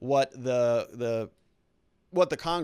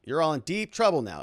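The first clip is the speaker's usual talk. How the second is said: imitating Jones; 4 semitones higher, 3 dB louder than usual. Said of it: "but you heard him say that".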